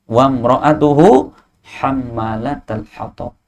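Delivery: very slow chanted Arabic; slow Quranic recitation. Acted. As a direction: draw out each word in recitation.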